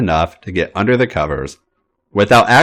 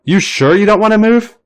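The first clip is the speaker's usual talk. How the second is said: much higher teasing singsong warning; a playful threat in a lilting tone; 12 semitones higher, 3 dB louder than usual. A narrator's reading. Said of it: "Sammy sings songs warningly".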